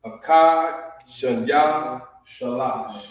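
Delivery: Akkad, Shanya, Shalash counted out one word at a time; teacher drilling the Hebrew numbers; counting in Hebrew. Shown as a demonstration. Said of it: "so one, two, three".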